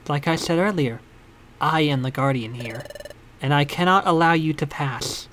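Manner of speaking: low stern guardian voice. Acted.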